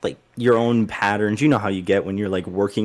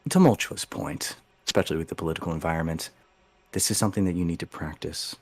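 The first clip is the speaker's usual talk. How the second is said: stern grandmother; 3 semitones lower, 6 dB quieter than usual. Acted. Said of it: "she goes".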